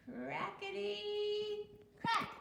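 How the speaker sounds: high, bursting sound of the shell; crackety crack. A narrator's reading. Teacher revealing the hatching, high and bursting. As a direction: pop the words like a cracking shell.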